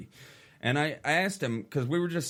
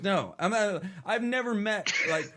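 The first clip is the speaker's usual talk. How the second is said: incredulous rant; 6 semitones higher than usual. Retold or imitated. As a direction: pitch climbing high, worked-up disbelief. Retelling heated argument.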